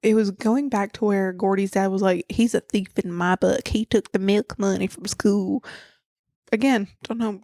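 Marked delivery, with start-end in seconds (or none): 2.3-5.6 lightly voiced Southern dad; Southern accent. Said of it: "don't know why I made him Southern".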